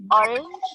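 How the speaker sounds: ORANGE stressed on its first syllable, pitched high. Shown as a demonstration. Teacher giving a word-stress example, ORANGE stressed at the start. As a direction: hit the start of ORANGE, rising. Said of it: "it's in the first syllable".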